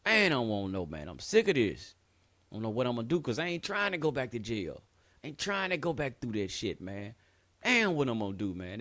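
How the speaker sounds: reliving the moment he broke down, loud and desperate; retold despair. A man back from jail, alone at home, crying out in despair. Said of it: "I'm like".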